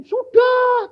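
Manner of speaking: short high answer as the Lord; reply as Jesus, lifted high; voicing the Lord. Preacher voicing Jesus answering his question, high and short. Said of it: "Tuhan bilang".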